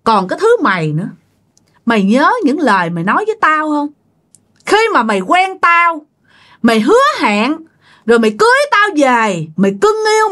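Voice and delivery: acted bitter accusation; scolding. Betrayed wife throws husband's promises back at him, scolding. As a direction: reproach him, pitch leaping on key phrases. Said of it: "chửi ông Phùng nha các bạn".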